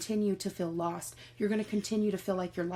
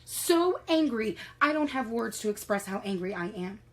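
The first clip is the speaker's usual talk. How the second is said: venting anger; 2 semitones higher than usual. Pretend. Venting to her mirror image, whispering then shouting in anger. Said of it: "you're looking at yourself in the mirror and you're like".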